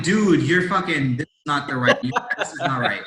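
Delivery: retelling a shocked protest at the doctor; indignant protest. Retold or imitated. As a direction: push back in disbelief at the doctor.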